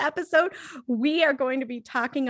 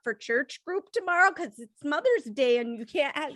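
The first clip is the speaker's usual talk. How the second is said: put-on Minnesota accent. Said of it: "pulling out my Minnesota accents".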